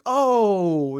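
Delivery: a sudden high, loud indignant oh; mock his own outburst at the bad call; retold indignant yelp; startled protest. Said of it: "I reacted".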